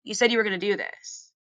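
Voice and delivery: gently remind, without insisting; good sponsor. Retold or imitated. God voice reminding her like a good sponsor, gently firm. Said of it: "kinda like a good sponsor".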